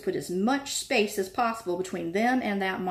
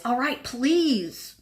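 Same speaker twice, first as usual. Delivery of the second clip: slow, grudging, louder; 5 semitones higher, 4 dB louder, much slower than usual. A narrator's reading. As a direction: force the word out. Filch grudgingly gives in.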